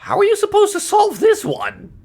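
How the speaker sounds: high, loud exasperated yell; frustrated shout. Real, not acted. Frustrated by puzzle.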